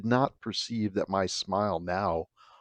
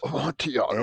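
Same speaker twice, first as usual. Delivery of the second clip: lightly voiced tipsy Fortunato; 5 semitones higher, faster than usual. Fortunato repeats name.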